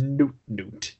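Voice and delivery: lightly imitated Pingu noot; a hint of an aggressive cartoon penguin call; aggressive penguin honk. Podcaster imitates Pingu swearing, mildly aggressive honk. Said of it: "that really aggressive".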